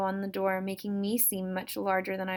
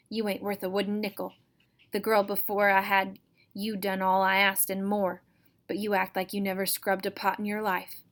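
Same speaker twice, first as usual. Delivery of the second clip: harsh berating. Acted. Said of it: "berating someone in a harsh voice".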